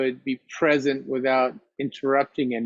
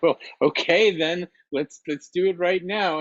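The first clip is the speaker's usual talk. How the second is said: nervous; 5 semitones higher than usual. Acted. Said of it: "got all nervous".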